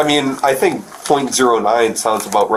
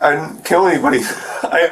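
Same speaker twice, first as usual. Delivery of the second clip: nervous laugh; 4 semitones higher than usual. Real, not acted. Arrested suspect laughs nervously.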